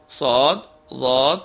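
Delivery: صاد، ضاد drawn out slow with a heavy, velarized sound; heavy emphatic letters. Shown as a demonstration. Teacher demonstrating heavy letters to students, slow and heavy. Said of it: "ان کی آواز ہمیشہ بھاری ہوتی ہے".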